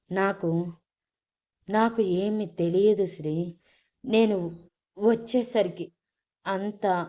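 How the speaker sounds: a choked, breaking voice. A narrator's reading. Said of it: "గొంతు మాట రావటానికి కష్టంగా". (గొంతు పూడుకుపోయిన స్వరంతో)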